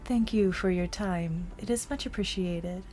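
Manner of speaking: calm measured politician; formal speaker voice. Acted. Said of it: "subtle little nod".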